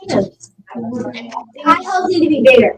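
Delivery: slow, careful statement; slow and drawn out. Real, not acted. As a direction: draw out each word slowly.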